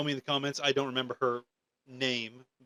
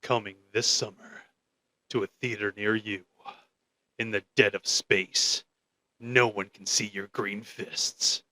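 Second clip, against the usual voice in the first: movie trailer voice; 3 semitones lower than usual. Acted. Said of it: "the trailer announcer's voice".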